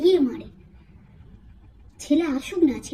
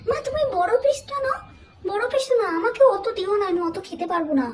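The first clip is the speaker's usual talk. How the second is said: higher, sugary overly polite voice; fake sweetness; 3 semitones higher than usual. Daughter-in-law offering mother-in-law the big piece, high fake sweetness.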